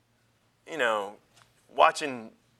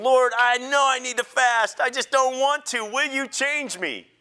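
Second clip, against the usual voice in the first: higher-pitched plea to God; retold prayer, pleading with the Lord; 5 semitones higher than usual. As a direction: pray it out high, reluctant but asking. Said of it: "I've been praying".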